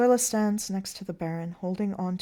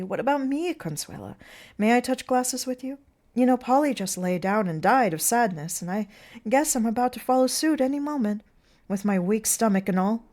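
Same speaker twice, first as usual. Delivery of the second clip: high, loud, comically doleful clown voice; plaintive clown Tilly; 5 semitones higher, 8 dB louder than usual. Acted. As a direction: beg for a toast with exaggerated self-pity. Plays Tilly asking to toast.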